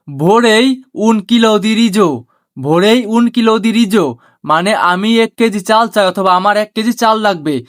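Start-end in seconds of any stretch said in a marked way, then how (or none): 0.1-4.1 very slow, word by word Italian phrase; slow teaching demo. Shown as a demonstration. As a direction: spell it out slowly for learners. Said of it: "Italian ভাষায় বলা হয়". (ধীরে ধীরে শেখানোর উচ্চারণ)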